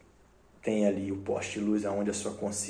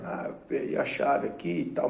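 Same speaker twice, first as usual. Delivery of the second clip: put-on drunk voice; 5 semitones higher than usual. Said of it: "ele tá com a voz de bêbado".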